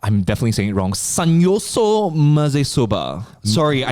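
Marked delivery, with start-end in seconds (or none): 0.9-3.3 slow Japanese accent on the dish name. Shown as a demonstration. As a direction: Sanyoso Maze Soba in a put-on Japanese accent. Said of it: "I did Japanese accent there".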